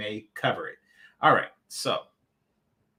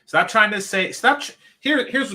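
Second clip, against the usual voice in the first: exasperated outburst; 8 semitones higher, 7 dB louder than usual. Real, not acted. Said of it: "rising frustration".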